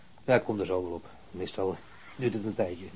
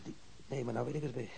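ordinary talk

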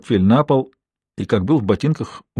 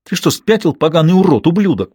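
furious outburst; 6 semitones higher than usual. A narrator's reading. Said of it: "Последнее слово она выкрикнула".

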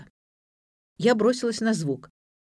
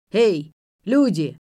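put-on slow, loud drunken call; a drunk bellowing for company; 6 dB louder, slower than usual. A narrator's reading. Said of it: "пьяный голос".

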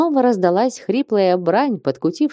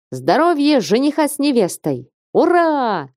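shouted toast; 7 semitones higher than usual. A narrator's reading. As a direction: raise the glass and yell it out. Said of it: "во всю мочь закричал Веденеев".

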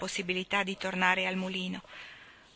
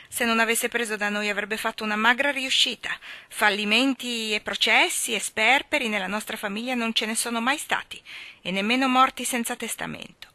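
lightly voiced family pride; a smug aunt boasting; Mrs Glegg, proud; 3 semitones higher, 4 dB louder than usual. Mrs Glegg boasts of her family to Tom, lightly voiced. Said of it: "disse missus Glegg".

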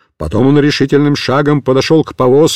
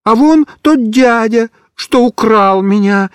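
mild scared explaining; 6 semitones higher than usual. A narrator's reading. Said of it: "испуганно объяснял Микиш".

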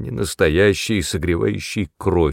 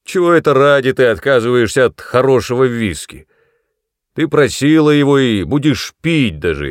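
loud, higher, harsh demands; bullying rage; 3 semitones higher, 5 dB louder than usual. A narrator's reading. Son bullying his old mother, loud and angry. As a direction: force her to drink.

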